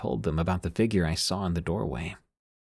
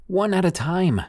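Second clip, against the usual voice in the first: high-pitched, raised-voice command; mild scream; 11 semitones higher, 4 dB louder than usual. A narrator's reading. Narrator to family all talking at once, mildly screamed. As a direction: call out over everyone, short of a full scream. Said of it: "I had to scream and say".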